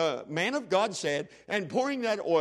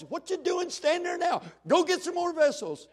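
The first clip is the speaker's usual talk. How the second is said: high-pitched, excited mother giving orders; urgent mama; 10 semitones higher than usual. Acted. Widow sends her boys for more vessels, excited. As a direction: send them off in a high, urgent voice.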